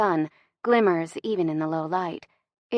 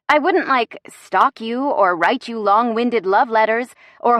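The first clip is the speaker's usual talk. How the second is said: higher, emphatic, tumbling protest; indignant heroine; 4 semitones higher, 4 dB louder than usual. Acted. Woman insisting she won't chase him, indignant. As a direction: rant back at him with punched stresses.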